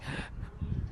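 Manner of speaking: sharp unvoiced gasp of panic; a panicked gasp on waking. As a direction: suck in air as if waking in panic. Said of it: "I was, like, panicking".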